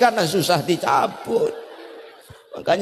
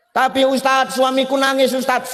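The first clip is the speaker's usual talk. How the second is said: pleading wife; 5 semitones higher than usual. Acted. Wife protests to the preacher.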